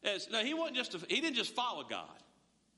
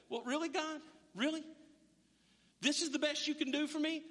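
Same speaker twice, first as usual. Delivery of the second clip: mock complaining; 3 semitones higher than usual. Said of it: "He doesn't go".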